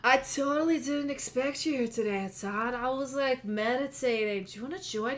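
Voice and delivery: a hint of a chill, spaced-out gym owner; mellow stoner. GM voices stoner proprietor.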